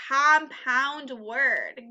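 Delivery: compound word stretched out slowly, each part held; slow, drawn out. Shown as a demonstration. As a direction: draw out compound word for kids to fill in. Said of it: "When there's two separate words".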